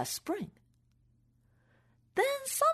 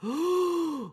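gasp; 6 semitones higher than usual. Acted. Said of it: "his turn to go".

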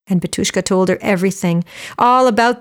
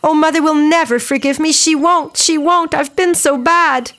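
higher, rising panic as she repeats she won't; distressed girl; 6 semitones higher than usual. Acted. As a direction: voice climbing in guilty dismay. Girl despairs over spinning.

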